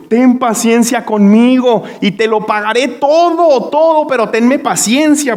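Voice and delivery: a touch of desperate begging; begging fellow servant. Acted. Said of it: "le rogaba diciendo".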